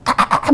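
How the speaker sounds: short mock yell; brief demo cry; demonstrated yell. Shown as a demonstration. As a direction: imitate shouting back, held in. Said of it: "제가 소리 크게 해봤거든요".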